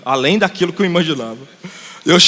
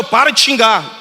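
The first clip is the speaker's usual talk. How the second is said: raised-pitch retold telling-off; scolding; 4 semitones higher, 3 dB louder than usual. Pastor telling an old woman off for swearing, mild scolding. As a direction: chide her firmly, without real anger. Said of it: "Toda hora eu danando com ela".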